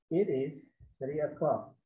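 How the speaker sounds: slow model sentence. Shown as a demonstration. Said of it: "eh, pengucapannya?".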